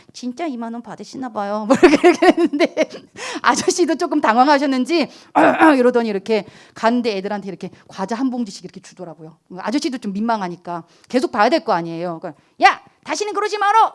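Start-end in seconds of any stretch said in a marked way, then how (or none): 0.1-1.6 softer, timid little question; timid mumble. Retold or imitated. 전도사가 가게 주인에게 소심하게 묻는, 조심스러운 작은 목소리. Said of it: "되게 소심하게". 12.6-13.9 high, loud gruff scolding; scolding shout. Retold or imitated. 가게 주인이 과자를 주며 아이들에게 소리치는, 퉁명스러운 호통. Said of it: "이러면서".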